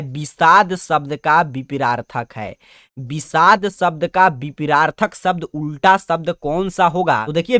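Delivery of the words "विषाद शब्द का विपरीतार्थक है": slow question reading. Shown as a demonstration. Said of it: "कह रहा है".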